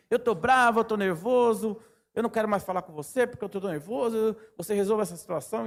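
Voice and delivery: imitating angry client. Client on the phone ranting at the worker, imitated angrily. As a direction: play the client complaining he's nervous, quick and heated.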